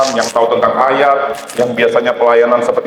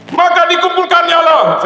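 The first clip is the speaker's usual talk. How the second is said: deliberate shout. Shown as a demonstration. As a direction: shout it out to wake the congregation. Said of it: "Saya sengaja teriak-teriak supaya pada bangun".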